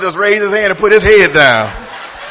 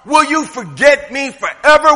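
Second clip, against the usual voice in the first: pleading cry; 5 semitones higher than usual. Retold or imitated. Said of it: "felt like David".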